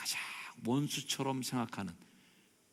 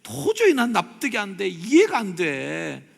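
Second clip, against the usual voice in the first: loud, high, drawn-out indignation; exasperated refusal; 8 semitones higher, 11 dB louder, slower than usual. Shown as a demonstration. Preacher acts out what not to say, loud indignant refusal. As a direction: protest in total disbelief. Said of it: "이러지 마시고".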